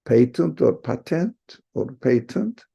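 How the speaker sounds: "patent" tried different ways, unsure which is right; trying out pronunciations. Shown as a demonstration. Speaker unsure how to pronounce the word he reads, trying "patent" in varied ways. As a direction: test alternative pronunciations of "patent", questioningly. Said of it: "maybe the pronunciation".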